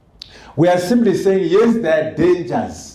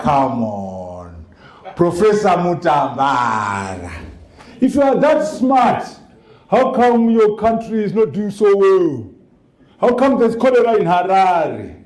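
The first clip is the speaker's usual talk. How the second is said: imitating mocking delegates; 3 semitones higher than usual. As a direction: tease the professor lightly, rising on "If you are that smart".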